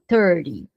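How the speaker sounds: "thirty" roughly as turdy, tapped middle T; American thirty, tapped T. Shown as a demonstration. Teacher approximates the sound for learners, tapped T. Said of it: "essa pronúncia é tipo assim".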